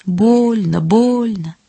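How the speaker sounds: piping mushroom cries, each one drawn out; squeaking mushrooms. A narrator's reading. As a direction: squeak it out like small complaining creatures. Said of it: "пищат грибы".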